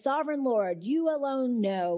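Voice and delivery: humbly defer to God while dodging; pious and polite. Retold or imitated. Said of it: "which sounds very pious and polite".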